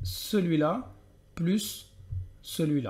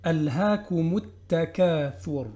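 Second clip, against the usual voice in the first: slow tajwid recitation; measured Quranic chant; careful recitation; slower than usual. Shown as a demonstration. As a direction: chant the verse slowly and clearly. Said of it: "j'ai bien prononcé la dhamma".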